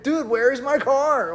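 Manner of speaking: lightly hammed-up panic; mock distressed. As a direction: imitate a frantic guy who lost his car. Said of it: "he's distressed".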